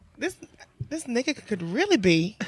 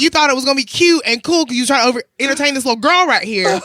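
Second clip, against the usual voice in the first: loud, mocking lecture; retold scolding; 3 semitones higher, 6 dB louder than usual. Bartender calls out customer showing off, retold scolding. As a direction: scold loudly over the show-off behavior. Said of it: "He got yelled at too".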